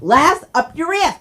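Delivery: indignant retort. Retold or imitated. Snapping back about keys.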